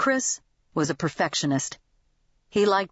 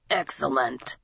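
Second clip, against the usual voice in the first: put-on satisfied old man; 5 semitones lower than usual. A narrator's reading. Old man pleased with himself.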